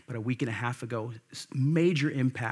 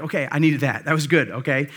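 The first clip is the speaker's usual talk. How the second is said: sheepish quote; 7 dB louder, faster than usual. Retold or imitated. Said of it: "you're like".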